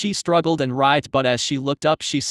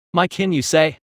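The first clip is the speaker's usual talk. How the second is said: deep rumbling beast; 3 semitones higher than usual. A narrator's reading. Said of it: "said calmly in a deep rumbling voice".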